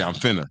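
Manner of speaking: "fixing to" run together as "finna". Shown as a demonstration. Contrasting how Black people say "fixing to", contracted "finna". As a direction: say "finna" as one contracted word. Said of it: "us black people, we say".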